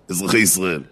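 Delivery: low, slow prime-ministerial address; mock statesman's announcement; Bibi. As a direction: address the nation in measured, weighty phrases. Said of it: "זוכרים את ההנחיות של ביבי".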